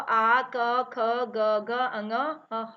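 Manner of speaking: slow recital, each letter sounded apart; reciting letters. Shown as a demonstration. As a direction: pronounce ख, ग, घ, अङ one by one, drawn out. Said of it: "तो इसमें कौन कौन से आते हैं?". (वर्णों का धीमा अलग-अलग उच्चारण)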